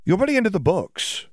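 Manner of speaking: put-on high, chirpy teasing girl; Ginny's voice.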